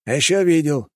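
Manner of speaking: openly teasing; mocking. A narrator's reading. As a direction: poke fun at him. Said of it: "откровенно потешался над ним Пушкин".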